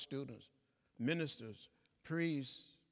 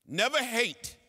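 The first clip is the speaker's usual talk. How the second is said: Never hate with Never hit higher and louder; stress on never; 8 semitones higher, 9 dB louder, slower than usual. Real, not acted. Civil rights elder urging students, Never punched hard. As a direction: drive the word Never home.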